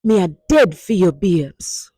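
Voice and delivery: dramatic. Shown as a demonstration. Teacher leading the class in the dramatic line. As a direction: blurt it like you mean it. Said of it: "Say it with me one more time".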